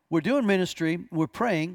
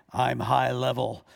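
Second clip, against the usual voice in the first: a man's voice, rough and creaky; 5 semitones lower than usual. Retelling what came out of a woman pinned to the ground: imitating a male voice. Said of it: "out of her voice, a male's voice says this".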